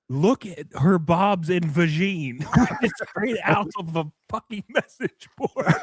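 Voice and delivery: laughing. Real, not acted. Laughing through words.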